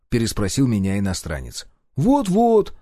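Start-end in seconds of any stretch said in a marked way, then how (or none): 2.0-2.7 said louder, high and firm. A narrator's reading. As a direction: raise the voice to be heard. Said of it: "уже более громко ответил я".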